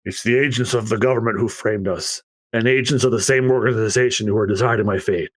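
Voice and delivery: a hint of a weary, heartbroken shipwright; understated low sorrow; lightly voiced Tom. Tom's grim, resigned speech.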